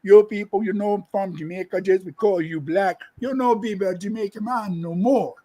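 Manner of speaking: imitating a woman insisting she is Jamaican in patois; lightly mocking patois impression; half-hearted Jamaican accent parody. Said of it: "remember that Asian lady".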